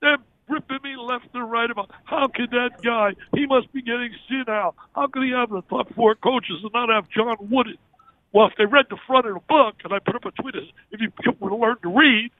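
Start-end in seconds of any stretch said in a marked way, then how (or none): 2.0-7.8 higher-pitched mock indignation of online critics; retold outrage. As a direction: imitate critics ripping into him. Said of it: "people the other day going crazy".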